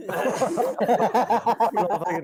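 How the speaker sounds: talking through laughter; laughing. Real, not acted. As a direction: laugh while you say it. Laughing after brother thrown.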